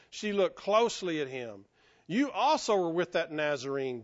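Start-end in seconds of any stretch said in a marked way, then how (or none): 2.1-4.0 understated accusation, leaning on "also"; mildly accusatory. Acted. Servant girl spotting Peter by the fire, mildly accusatory. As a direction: read it as a pointed accusation. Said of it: "there's just an accusatory tone to that".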